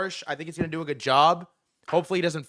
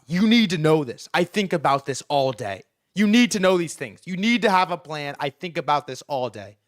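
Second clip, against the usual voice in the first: pressing insistence; 4 dB louder than usual. Retold or imitated. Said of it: "presses the guy".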